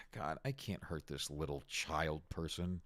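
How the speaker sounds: low, soft, fed-up grumble; weary cop mutter. Retold or imitated. Cop facing a small protester, a low, weary grumble. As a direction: sigh it out like a tired cop. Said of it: "that cop was just like".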